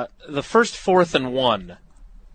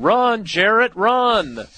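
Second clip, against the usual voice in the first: put-on higher, louder Forrest Gump voice with only a slight accent; Forrest Gump impression; 10 semitones higher, 5 dB louder, much slower than usual. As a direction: yell it like Forrest Gump cheering from the sideline. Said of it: "Was that a Forrest Gump there?".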